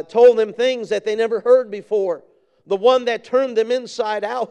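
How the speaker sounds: high, urgent pulpit delivery; fervent preaching. Real, not acted. Preacher voicing new convert David to his friend, fervent preaching. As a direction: preach it as an eager call to come.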